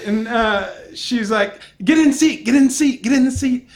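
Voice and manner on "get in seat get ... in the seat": urgent, repeated order, raised pitch; frantic attendant, lightly acted; imitating someone freaking out. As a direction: hurry them along in a mock panic. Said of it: "freaking out 'cause our next flight".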